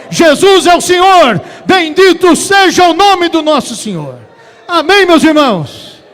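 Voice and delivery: very loud chant-like proclamation, building to a high shout; full-force preaching. Real, not acted. Clímax da pregação, repete proclamação. (pregação aos brados, em crescendo exaltado)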